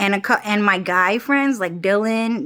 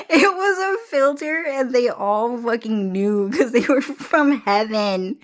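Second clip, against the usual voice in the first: laughing rant; 3 semitones higher than usual. Real, not acted. Laughing conspiracy bit.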